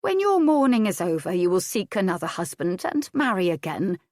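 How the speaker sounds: firm, motherly; lightly voiced nurse, firm; practical old nurse. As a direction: set her straight kindly. Nurse speaking to Adair.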